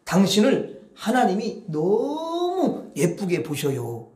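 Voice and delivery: slow, sweet words to the wife; gentle loving compliment; tender slow blessing. Shown as a demonstration. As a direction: savor every word lovingly. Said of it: "이렇게 해야 되는 거야".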